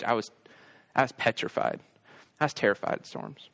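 subdued, understanding tone with pauses; retold tender apology, letting each phrase settle; gentle apology. Dad sitting with his scared boys on bed, gently apologetic.

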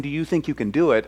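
mock clipboard official. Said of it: "holding a clipboard saying".

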